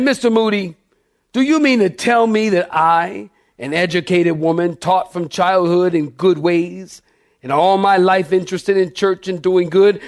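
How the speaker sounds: mildly indignant retold complaint; a touch of offended protest; angry. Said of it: "she said angrily".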